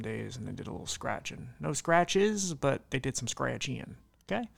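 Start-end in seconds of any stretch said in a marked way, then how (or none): 1.6-4.5 put-on light Texas southern accent. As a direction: slip into a southern drawl. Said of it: "Why I did a southern accent?".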